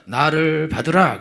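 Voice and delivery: slow, self-important command; mock lordly churchgoer; arrogant demand. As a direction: draw it out as a haughty demand. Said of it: "교만하고 배짱이요".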